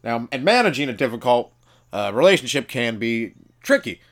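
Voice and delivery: lightly voiced talk-show doctor lecturing; comic pretends to be the TV doctor giving advice; Doctor Phil impression. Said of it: "This is pretty much Doctor Phil".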